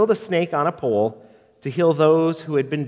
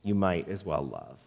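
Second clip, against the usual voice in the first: much softer and lower, dying away; fading repetition; 8 semitones lower, 8 dB quieter than usual. Acted. Pastor closing the poem, fading to near silence. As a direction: let the last repeat fade to almost nothing. Repeated closing line, faded.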